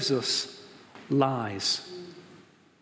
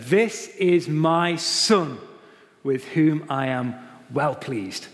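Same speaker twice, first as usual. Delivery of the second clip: slow voice from heaven; 4 dB louder, slower than usual. Retold or imitated. Voice from heaven quoted.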